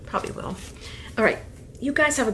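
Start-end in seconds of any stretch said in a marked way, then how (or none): 0.1-0.6 soft whispered echo; whispered repeat. Real, not acted. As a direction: breathe the repeat under your breath.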